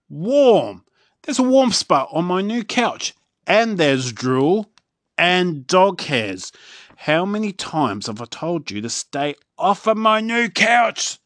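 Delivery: loud, high indignant rant; angry chief. A narrator's reading. Chief ranting at Dog Man about the couch, high and loud. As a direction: fume over the couch. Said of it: "says the chief".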